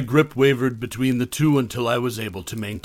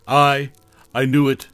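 stammering; 2 semitones higher, 6 dB louder than usual. Acted. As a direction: stumble over the words in awe. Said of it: "he stammered".

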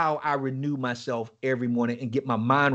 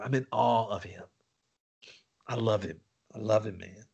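softer, reverent; hushed awe; 7 semitones lower, 7 dB quieter than usual. Real, not acted. Confessing love for God, hushed. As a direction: hush it in reverence. Quiet emotional worship.

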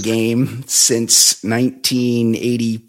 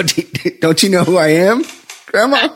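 higher, hammed-up outrage that rises on "Grandma"; mock indignant; 6 semitones higher than usual. Grandson mock-scolding his confused grandma, hammed-up indignant. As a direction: play the offended celebrity, all for laughs. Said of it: "permissible to go".

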